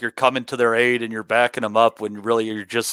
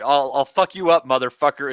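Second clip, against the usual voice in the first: Canelo's English. Retold or imitated. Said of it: "in regards to Canelo's English".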